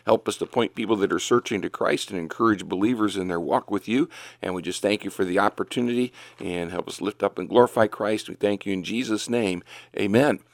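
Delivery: quick, earnest prayer to the Lord; opening prayer. Acted. Radio host opens his show praying for listeners, brisk earnest prayer. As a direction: pray briskly and humbly for the broadcast.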